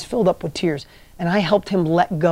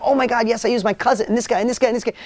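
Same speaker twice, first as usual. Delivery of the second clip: higher, fast eager rush of names; imitating excitement; 3 semitones higher, faster than usual. Tom lists his helpers to the coach, lightly fired up. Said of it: "And he's on fire".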